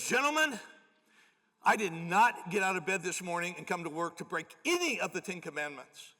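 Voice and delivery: imitating the mayor's stern pronouncement; booming declaration. Pastor imitates mayor slamming his hand down, mock stern. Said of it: "he slammed it down".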